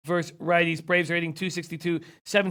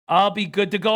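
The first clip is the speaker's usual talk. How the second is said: louder, emphatic; 3 semitones higher, 4 dB louder than usual. Shown as a demonstration. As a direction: punch it up, confident and louder. Repeats line, second take louder.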